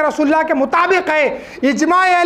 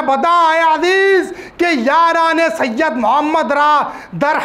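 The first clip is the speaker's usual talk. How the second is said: slow, deliberate Persian recitation; formal quotation reading; slower than usual. Acted. Preacher cites his elder's book as proof, slow formal reading. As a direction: draw out each phrase of the written passage.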